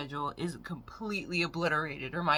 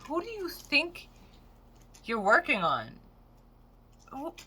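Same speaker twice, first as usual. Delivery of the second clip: indignant retort; 8 semitones higher than usual. Retold or imitated. Acted retort over wrong name.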